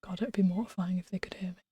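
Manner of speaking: soft unvoiced whisper. Real, not acted. Streamer whispering to chat about the crying girl, hushed. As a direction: whisper it so nobody outside hears. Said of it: "speaking low enough for you to hear".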